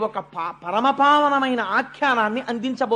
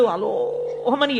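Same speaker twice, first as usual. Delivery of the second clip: long drawn-out mock wail; imitated crying howl; much slower than usual. Storyteller showing a child running crying to mother, mock wail. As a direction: stretch the vowel like a bawling kid. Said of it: "ఏడుస్తూ అమ్మ దగ్గరికి వెళ్ళాడు".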